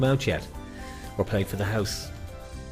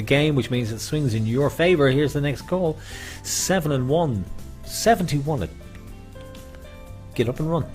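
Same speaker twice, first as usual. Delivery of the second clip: bingo caller; 6 semitones higher than usual. Acted. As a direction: sing out the bingo rhyme. Bingo calls on live stream.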